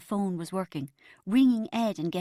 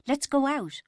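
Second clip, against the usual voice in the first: high, eager suggestion; 7 semitones higher, 3 dB louder than usual. A narrator's reading. Friend urges Bridget to go out, eager. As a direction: pitch it up with enthusiasm. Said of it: "I said eagerly".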